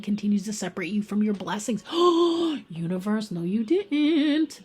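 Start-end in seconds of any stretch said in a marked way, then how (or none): 1.9-4.6 sharp gasp, then a slow, stretched "no, you didn't"; gasp of surprise. Real, not acted. Tarot reader reacts to the universe in surprise. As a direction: caught off guard by the cards, drawing it out.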